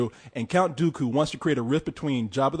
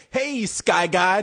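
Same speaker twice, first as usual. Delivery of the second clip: mock kid Jedi; 3 semitones higher, much slower than usual. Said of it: "a little Jedi say".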